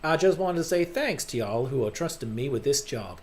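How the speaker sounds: lightly done southern drawl. Acted. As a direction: attempt a mild southern accent for a polite announcement. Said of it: "you just have to do the southern drawl accent".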